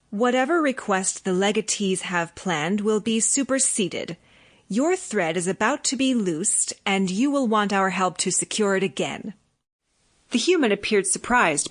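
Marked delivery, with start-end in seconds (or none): 0.1-9.3 flat. Acted. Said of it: "we replied flatly".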